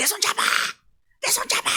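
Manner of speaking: loud, shouted, middle-aged man's voice. Retelling how a nearby man yelled out to the speaker, imitating a man shouting. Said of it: "막 소리를 지르는 거야".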